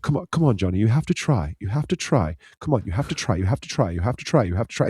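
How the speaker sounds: lightly imitated mum urging her child; mock parental nagging, pitch swooping; insistent coaxing mother. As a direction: repeat it like a looping, sing-song plea. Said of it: "she kept on saying to the kid".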